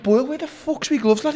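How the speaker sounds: high, loud demand for his gloves; mock outraged shout; retold yell at Boyle. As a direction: call across the gym for the gloves. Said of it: "And I went".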